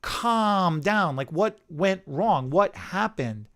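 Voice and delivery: slow, soft, soothing calm-down; quietly calming a furious client. Retold or imitated. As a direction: ease a shouting client down gently. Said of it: "So I'm like".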